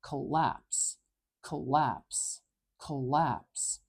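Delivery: "collapse" repeated with the strong ah in lapse; stress on lapse. Shown as a demonstration. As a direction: hit lapse, keep col weak. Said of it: "the ah is the strong part".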